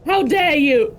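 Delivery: a loud, indignant how dare you; hammed-up offended shout; mock outrage. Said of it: "be like".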